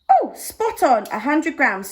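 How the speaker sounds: excited high oh of delight. Real, not acted. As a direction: cheer the exact weight, pleased. Scale hits exact weight.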